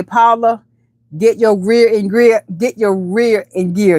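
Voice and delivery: lightly imitated Jamaican accent, drawn out. Telling Paula what Red would say, imitated Jamaican accent. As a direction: put on a slow, mild Jamaican accent. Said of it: "he has that Jamaican accent".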